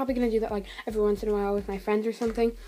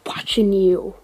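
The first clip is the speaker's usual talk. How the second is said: loud; 7 dB louder, slower than usual. Real, not acted. Calling out someone looking.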